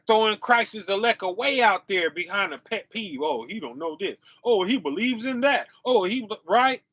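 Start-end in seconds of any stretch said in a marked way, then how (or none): 3.2-6.4 mock complaining. Voices petty fault-finders dropping the elect.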